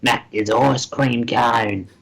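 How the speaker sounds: slow Aussie cadger; lightly hammed Australian accent; crusty Australian. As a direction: imitate a crusty Australian asking a favour. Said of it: "crusty, so like".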